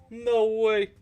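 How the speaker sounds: high, loud put-on character voice; quoting a video gecko. Crocheter quoting an old YouTube gecko, loud character voice. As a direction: blurt it like a cartoon gecko. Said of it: "where this gecko is like".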